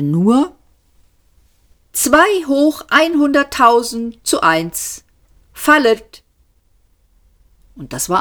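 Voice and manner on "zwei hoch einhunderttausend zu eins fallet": put-on high, sensible girl's voice. A narrator's reading. Girl's voice calling out the odds, high and composed. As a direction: raise it into a girl's composed announcement. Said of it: "eine Mädchenstimme. Sie hörte sich eigentlich ganz vernünftig an".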